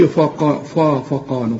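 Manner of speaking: فقالوا with a heavy ق and a thin ف; wrong then corrected. Shown as a demonstration. Teacher to student: fix the ف in فقالوا. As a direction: contrast a wrong فا with the right فقالوا. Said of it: "أنا مش عاوزك تظلم هذا الحرف".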